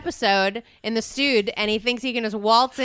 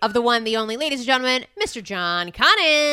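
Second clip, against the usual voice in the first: announcer introduction; 4 dB louder than usual. Acted.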